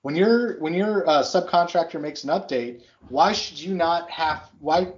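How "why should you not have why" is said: talking through hiccups; words broken by hiccups. Real, not acted. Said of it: "I got the hiccups now".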